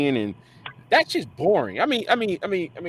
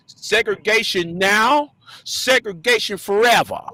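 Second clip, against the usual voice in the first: put-on Alabama accent; 4 semitones higher, slower than usual. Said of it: "I'll say it in my Alabamian accent".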